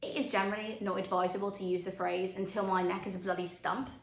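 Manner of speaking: low, measured interviewer's reproof; cool correction. Acted. Interviewer correcting an outspoken candidate, coolly measured.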